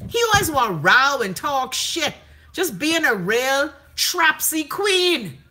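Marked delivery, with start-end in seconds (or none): 2.5-5.4 lightly voiced, drawn-out sassy queen; mocking a queen. Host mocking Fred to her viewers, a slow sassy put-on. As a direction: drag the words out in a mock diva voice.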